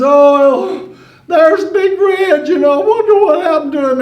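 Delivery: mock innocence. Granny feigns ignorance of rooster.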